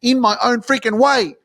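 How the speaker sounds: shouted high and loud, bursting with excitement; hyped-up cheer. Pretend. Podcast host hyping listeners to shout along, excited yell. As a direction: pump the crowd up like a hype man. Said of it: "put your hands in the air and go".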